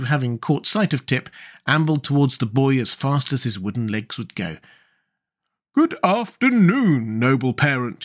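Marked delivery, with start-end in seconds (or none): 5.7-8.0 delighted. A narrator's reading. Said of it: "he cried delightfully".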